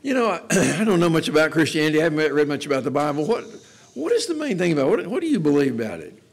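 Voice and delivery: curious newcomer asking. Retold or imitated. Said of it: "Somebody says".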